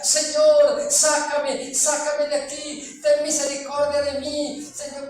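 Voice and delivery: loud, pleading cries of sácame; desperate shout. Retold or imitated. A damned man begs the Lord, shouting loudly. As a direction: yell for rescue from far off. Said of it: "la gente suplicaba y gritaba".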